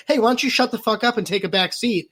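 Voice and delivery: mock scolding. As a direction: rattle off the rebuke. Acted activist rebuke.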